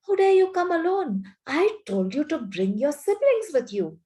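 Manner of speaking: high, loud, angry witch; terrible voice. Retold or imitated. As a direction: snap it at him, furious. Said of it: "She said in a terrible voice".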